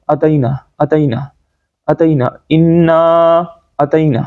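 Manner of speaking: "اتینا" with short a and thin t, no throat sound; quick, light "اتینا" without the ayn; common mistake. Shown as a demonstration. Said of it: "اس کے بعد جو غلطی ہوتی ہے".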